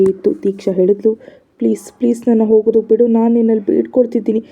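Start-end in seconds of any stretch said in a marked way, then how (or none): none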